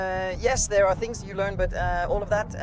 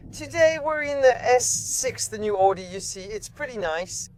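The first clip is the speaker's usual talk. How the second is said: voiceover read; 3 semitones higher than usual. Shown as a demonstration. Asked by the host for a quick voiceover, an announcer read. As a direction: present the car like a TV host. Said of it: "Do a quick voiceover".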